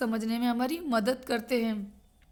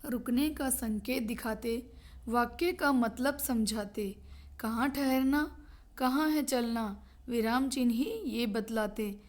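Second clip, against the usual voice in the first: slow, measured rhyme reading; verse recitation. Acted. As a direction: recite it slowly, line by line. Reads out a rhyming verse. (धीमी लय में कविता पाठ)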